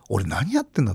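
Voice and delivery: soft unvoiced self-reproach; whispered to himself. Regretting his spending, whispering to himself. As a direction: breathe it out like a private regret.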